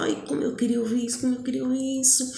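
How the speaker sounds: soft, rushed, delighted repetition; retold joyful relief. Boy hugging her after the yes, rushed relief. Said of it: "Ele me deu um abraço tão forte".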